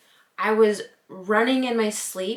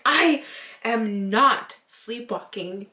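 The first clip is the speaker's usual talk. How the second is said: mock-offended, each word set apart; retold indignation; slower than usual. Wife retelling her upset denial to husband, indignant. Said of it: "made me so upset".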